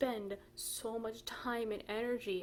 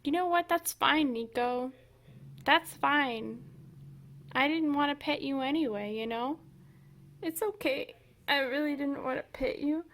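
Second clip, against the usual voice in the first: high, loud pretend hurt; mock offended; 6 semitones higher, 9 dB louder than usual. Owner pretending to be hurt by dog, high mock sulk.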